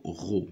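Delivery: ro, blended from R and O; sounding out the syllable. Shown as a demonstration. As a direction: articule la syllabe ro. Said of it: "R avec O". (syllabe ro détachée)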